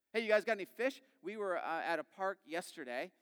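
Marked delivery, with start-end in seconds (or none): 0.1-1.0 raised, louder call across the water; hailing yell. Acted. Stranger on the shore to fishermen in a boat, hailing yell. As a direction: call out brightly to strangers at a distance. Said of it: "some guy starts yelling at us from the shore".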